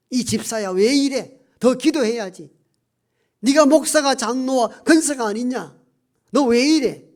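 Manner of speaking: a preacher's hammed-up rebuke; scolding. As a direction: scold a slacking deacon. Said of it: "이렇게 야단칠만 하잖아요".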